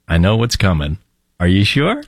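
a hint of knowing, feigned innocence; knowing mock question. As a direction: sly fake surprise. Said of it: "That is".

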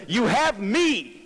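high, slow, drawn-out promise; God reassuring. Retold or imitated. God telling doubting Moses he has Him, slow and high. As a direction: stretch each word out like a patient promise.

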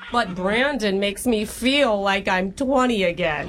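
hammed-up Long Island-Boston-Minnesota mom accent; old Jewish mom accent jumble; horrible jumbled accent. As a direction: play a chatty older girlfriend in a bad regional accent mash-up. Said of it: "doing a horrible accent".

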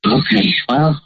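disguised voice changer; electronically masked voice. Real, not acted. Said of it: "his changed voice".

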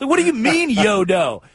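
high incredulous question; baffled. Retold or imitated. Reporter baffled by coach's answer, high incredulous.

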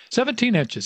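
a high, booming confirmation that fills the hall; old coach bellowing the answer to the crowd. A narrator's reading. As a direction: call it out high so it rings off the walls. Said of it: "his voice bellowing off the walls".

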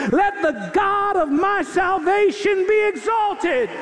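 rising preacher's litany, each line struck; sermon building from steady to fervent; preaching. Acted. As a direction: build the declarations toward praise.

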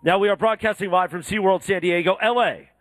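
upbeat promo voice, lightly pitched; radio promo read. Acted. Host promotes SeaWorld live on air, upbeat promo read. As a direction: pitch the shark exhibit to listeners like an ad.

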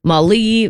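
MALI as "mah-LEE"; trying a pronunciation. Shown as a demonstration. Co-host guessing at a stranger's first name, trying a pronunciation. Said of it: "don't know how to pronounce".

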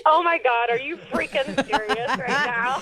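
stunned; relieved disbelief; disbelieving. Real, not acted. Learns it is a prank.

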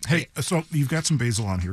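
talking while chewing; mouth full. Real, not acted. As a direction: speak around a bite of pizza. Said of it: "I don't wanna talk too much with my mouth full".

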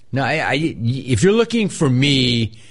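normal talking voice

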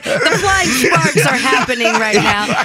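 slow, hammed-up trailer voice; mock movie trailer. Co-host imagines the host voicing a trailer, slow mock-trailer read. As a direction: draw it out like a bad trailer. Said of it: "voice the movie trailer".

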